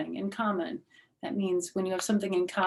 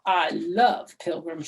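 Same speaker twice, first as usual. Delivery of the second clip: May's voice; 5 dB louder, slower than usual. Acted. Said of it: "she said".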